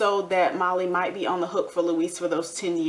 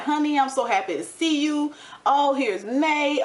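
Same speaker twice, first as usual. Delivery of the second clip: lightly imitating a sugary sweet greeting, higher; mock sweet boyfriend; 6 semitones higher than usual. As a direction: lay it on thick like a smitten fake. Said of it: "he was being so sweet".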